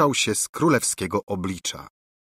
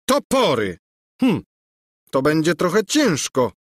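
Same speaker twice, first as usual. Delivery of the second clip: high, loud shocked cry; startled prince; 7 semitones higher, 4 dB louder than usual. A narrator's reading. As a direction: caught off guard, then musing. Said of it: "zamyślił się Bulbo". (zaskoczony książę)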